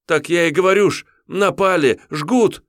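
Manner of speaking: высокий, громче, на грани плача; умолять спасти деревню; отчаянная мольба отрока. Acted. Отрок повторяет в панике. (отрок в панике молит воеводу)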